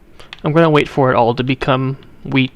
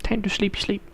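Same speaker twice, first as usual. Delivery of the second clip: soft sing-song; 6 semitones higher, 9 dB quieter than usual. Real, not acted.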